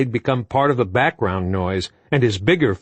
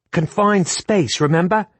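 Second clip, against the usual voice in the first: scolding; 8 semitones higher than usual. A narrator's reading. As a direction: drag out the scold. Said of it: "scolding Sam".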